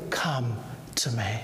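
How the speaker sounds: breathy whisper of the Savior. Acted. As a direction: whisper it like a tender invitation. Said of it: "you hear the whisper of the Savior".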